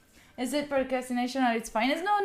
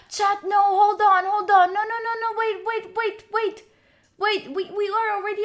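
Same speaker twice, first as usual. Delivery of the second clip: louder, rushed call to stop; surprised call; 5 semitones higher, 6 dB louder than usual. Real, not acted. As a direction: stop chat in sudden alarm. Alerts suddenly flood in.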